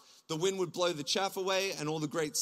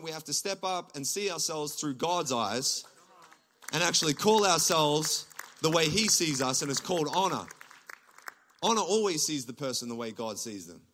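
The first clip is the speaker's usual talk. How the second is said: ordinary delivery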